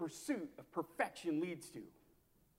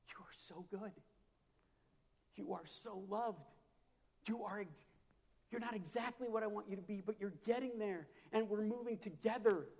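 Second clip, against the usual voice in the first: gentle whisper; 4 semitones higher than usual. Pretend. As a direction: lean in close and speak gently, like a loving whisper. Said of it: "God to just start whispering".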